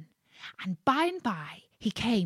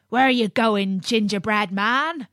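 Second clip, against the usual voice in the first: louder call to the runner; 5 dB louder than usual. Acted. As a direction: hail him from the ditch. Ditch diggers call out.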